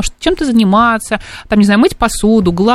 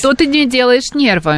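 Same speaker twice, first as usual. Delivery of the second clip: put-on Odessa Russian accent; 3 semitones higher, slower than usual. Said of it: "Ещё более одесский акцент сделай".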